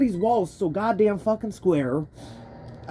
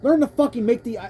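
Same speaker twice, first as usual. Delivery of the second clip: angry rant; 3 semitones higher, 5 dB louder than usual. Real, not acted. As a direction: scold the developers hotly. Ranting at Nintendo's AI.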